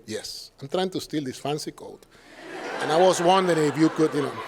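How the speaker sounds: deadpan sarcasm at the clerk; sarcastically telling a shop clerk he's stealing; sarcastic reply. Retold or imitated. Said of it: "Second time".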